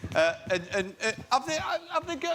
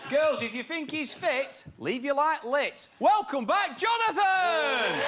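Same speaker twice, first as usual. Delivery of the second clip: game show host; slower than usual. Pretend. Show host catchphrase, building.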